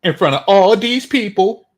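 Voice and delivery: mocking her complaint; mocking her words. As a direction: throw her words back with scorn. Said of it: "notice how she values the opinion".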